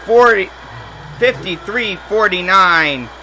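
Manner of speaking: hyped-up play-by-play yell on a big slam; excited dunk call. Real, not acted. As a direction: shout the dunk like the crowd just rose. Dunk call in live commentary.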